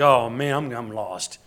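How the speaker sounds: loud, worried cry of a lost son; the lost son panicking as the sun sets; panicked lost son. Acted. Preacher voicing the son realizing he's lost, loud and panicked.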